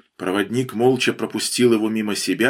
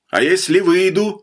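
calling out a question; 7 semitones higher, 4 dB louder than usual. A narrator's reading. Cornered bandit calls out a question.

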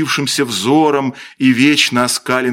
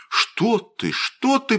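frightened babble; 11 semitones higher, slower than usual. A narrator's reading. Костя reacts to hearing of a dead boy's voice, frightened babble. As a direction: babble it in hushed alarm. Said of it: "пролепетал Костя".

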